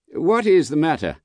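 high, slightly anxious question; mildly quavering. A narrator's reading. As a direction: repeat the question with a faint quaver. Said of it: "with mildly quavering speech".

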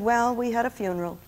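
softly voiced gloomy grandchild; quiet, understated mournful report; melancholy retelling. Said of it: "he told this all so melancholy".

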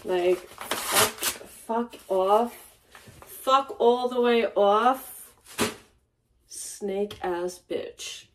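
slow, drawn-out contained anger; real anger. Real, not acted. Cheated-on woman cursing her ex, angry. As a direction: curse them slowly, each phrase set apart. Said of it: "you know the anger that I share inside me right now".

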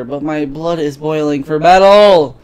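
slow, drawn-out heroic line; theatrical battle cry. Acted. Patient trapped in a healing chamber, slow theatrical battle cry. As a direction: stretch it out toward a rousing finish. Patient plays fantasy warrior.

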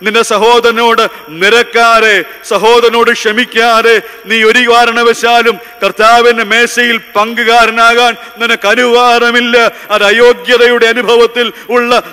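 emphatic, admonishing pulpit delivery; forceful preaching. Real, not acted. Preacher warning the unreconciled away from communion, forceful preaching. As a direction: drive each warning home to the congregation.

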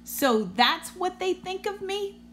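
high, wounded voice of the bus; hurt little bus. Acted. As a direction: sound stung and small. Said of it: "Busby thought".

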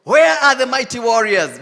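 calling out loud for warriors; God calling out. Pretend. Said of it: "the Lord is looking at ... and says".

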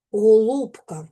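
"голубка" with the first о leaning towards у; "голубка", unstressed о drawn close to an у sound. Shown as a demonstration. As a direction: say "голубка" almost as "гоуlубка", о rounded towards у. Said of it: "вимовляємо з наближенням до у".

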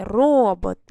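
«робот» із протягнутим, гучним «ро»; виділи голосом перший склад у «робот»; наголос на першому складі. Shown as a demonstration. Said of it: "На який склад став". («робот», повільно, з сильним наголосом на «ро»)

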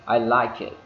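"I like it" with the K of "like" softened; linked "like it", the K barely pronounced; reduced K. Shown as a demonstration. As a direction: glide from "like" into "it" on a very light K. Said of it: "Nó bị giảm cái âm đi".

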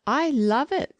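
put-on high, emphatic young wife; prompt reply. A narrator's reading. Wife admits she likes money, prompt and high. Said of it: "said the wasp promptly".

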